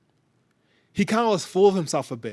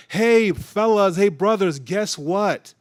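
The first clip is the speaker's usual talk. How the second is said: higher, louder eager hail to the brothers; eager calling out; 4 semitones higher, 5 dB louder, slower than usual. Retold or imitated. Joseph eagerly calls his brothers over, excited and louder. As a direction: call them over, bursting with news.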